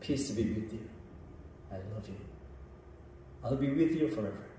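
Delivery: soft, low, gentle voice; hushed words of forgiveness, sinking very quiet; tender reassurance. Acted. Risen Jesus to disciples who betrayed him, tenderly reassuring.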